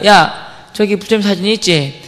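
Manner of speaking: slow, measured mock threat; acting out a bully's slow warning; retold threat. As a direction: lay down a threat unhurriedly. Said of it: "그래서 제가 위협하는 거예요".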